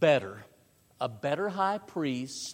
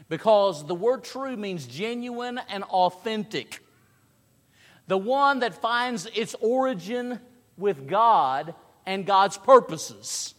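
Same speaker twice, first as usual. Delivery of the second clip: raised, insistent sermon voice; emphatic preaching; 6 semitones higher, 7 dB louder than usual. Real, not acted. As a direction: teach it with pulpit conviction.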